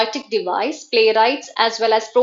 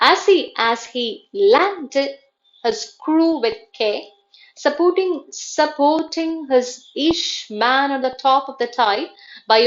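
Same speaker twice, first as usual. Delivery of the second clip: slow, halting recitation with pauses; anapestic verse reading; 2 semitones higher than usual. Shown as a demonstration. Teacher reading Carroll as an anapestic example, slow and measured. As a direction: pick out the beats phrase by phrase. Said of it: "anapestic meter".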